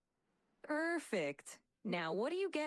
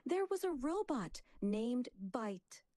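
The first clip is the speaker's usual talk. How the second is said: big, booming dramatic storytelling; maximal drama; 4 semitones higher than usual. Shown as a demonstration. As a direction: tell it with maximal emotion. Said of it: "Let's amplify the drama".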